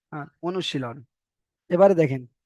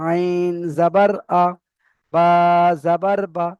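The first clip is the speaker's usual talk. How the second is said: আইন জাবার আ said slowly, each syllable separate; cut apart slowly; slower than usual. Shown as a demonstration. Teacher showing students the right, broken-up spelling. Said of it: "কেটে কেটে বানান করতে হবে".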